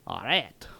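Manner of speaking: "arrête" said in a rough American attempt at French; badly pronounced French "arrête"; butchered French. Shown as a demonstration. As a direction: mangle "arrête" with a hard, flat first vowel. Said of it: "I am butchering that hardcore".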